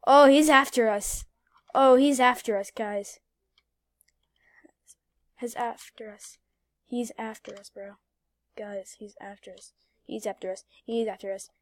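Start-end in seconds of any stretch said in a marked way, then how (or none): 0.1-3.2 alarmed. Real, not acted. Alarmed as police chase. 5.4-9.7 quiet. Real, not acted. Repeated quietly.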